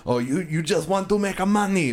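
high, whiny mock-kid voice; mocking impression of an angry kid. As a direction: parrot him like a whiny brat. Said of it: "he's, like, saying".

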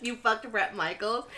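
slow, stunned laughing question; mock disbelief. She retells reacting to the confession about a singer, slow shocked question. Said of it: "I was like".

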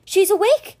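loud, high-pitched burst of news; excited cry. A narrator's reading. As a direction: cry it out to the whole room. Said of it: "he cried".

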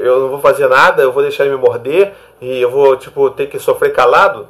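exasperated objection. Retold or imitated. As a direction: push back loudly, like a doubtful parent. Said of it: "as pessoas sempre ficam assim". (protesto indignado e alto)

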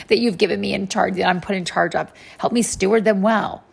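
lightly acted plea for help; a touch of earnest appeal; Moses's pleading cry. Moses asks God to help him steward them, lightly acted plea. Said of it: "Then Moses cried out to the Lord".

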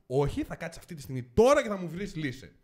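firm, loud mock telling-off; angry demand. Ordering the official to find a solution, angrily insistent.

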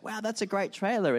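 impressed friend. Acted. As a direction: play a friend admiring the trailer. Acted friend admiring the trailer.

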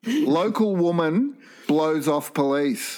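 slow, deadpan headline read; mock headline read. Host reading a silly headline to the guests, slow deadpan. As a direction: read it like a news bulletin, slowly. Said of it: "I have some headlines for you".

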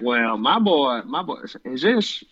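light Southern hick drawl. Retold or imitated. Prank caller phoning a gym coach, light hick voice. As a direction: put on a mild country hick accent. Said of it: "he does a hick voice".

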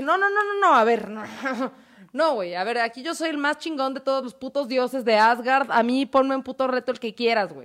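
Thor hams up his outrage in protest; angry Thor. Retold or imitated. Thor, enraged at losing, shouts at the giant in mock fury. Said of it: "Thor se emputa y dice".

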